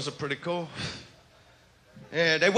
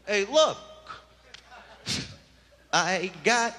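smooth pickup line; 3 semitones higher, much slower than usual. Retold or imitated. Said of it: "I'm like".

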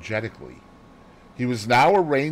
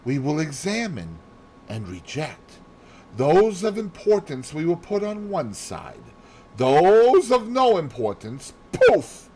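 higher, lively Belgian detective lilt; Poirot voice; 6 semitones higher than usual. Acted. Poirot lecturing Hastings on sorting facts, lively and high. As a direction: play the fussy little detective explaining his method.

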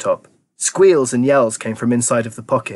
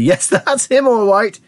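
high, thrilled confirmation; excited yell; 10 semitones higher, 4 dB louder, slower than usual. A narrator's reading. Wonka spotting the boy on screen, yelling excitedly. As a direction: call it out, thrilled. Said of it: "yelled Mister Wonka".

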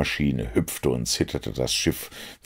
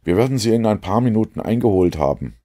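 higher, much louder eager reply; eager Watson; 6 semitones higher, 4 dB louder than usual. A narrator's reading. Watson agrees with Jones, higher and louder. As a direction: agree with excitement.

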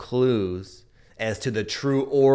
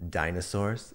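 very serious tone; 4 semitones lower, 5 dB quieter than usual. Retold or imitated. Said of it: "in a very serious tone".

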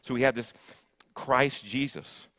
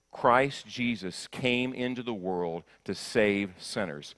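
slow recitation; slower than usual. Shown as a demonstration. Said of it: "Can you say that with me?".

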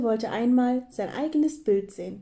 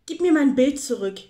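loud, higher plaintive demand; wailing; 4 semitones higher, 7 dB louder than usual. A narrator's reading. Hare begs squirrel for his picture back, wailing. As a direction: wail for it to be returned. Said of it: "jammerte der Hase".

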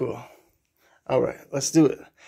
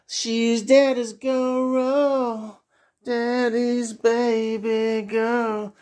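slow sing-song cooing to a pet; 3 semitones higher, much slower than usual. Real, not acted. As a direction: coo it slowly, drawn out.

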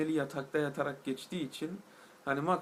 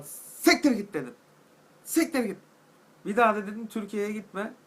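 mock angry yell; 5 semitones higher, 6 dB louder than usual. Telling off the German.

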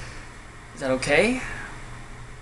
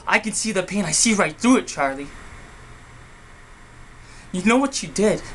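angry accusation; 3 semitones higher than usual. Acted. Accusing brother in acted quarrel.

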